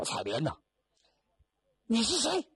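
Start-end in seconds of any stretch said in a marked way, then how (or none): 1.9-2.5 put-on sharp, very high angry girl's cry. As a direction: snap it out as the furious young woman. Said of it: "气的". (气愤的姑娘尖声质问)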